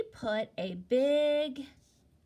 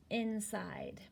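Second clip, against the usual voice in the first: whispered word, barely voiced; 6 dB quieter than usual. Shown as a demonstration. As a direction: breathe the word out softly. Sounds word out after spelling.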